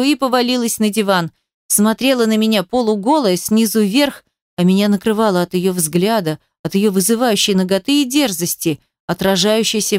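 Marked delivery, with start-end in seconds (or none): none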